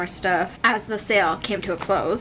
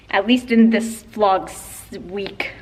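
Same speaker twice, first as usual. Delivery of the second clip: slip of the tongue. Real, not acted. Misspeaking while giving a friend a shout out. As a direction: trip over the words mid-sentence. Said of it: "What am I saying?".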